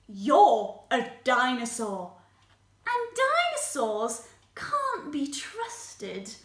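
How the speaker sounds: mildly stern, measured rejection; a touch of cold distrust; dismissive. Acted. Singer tells Spike dinosaurs are untrustworthy, mildly stern dismissal.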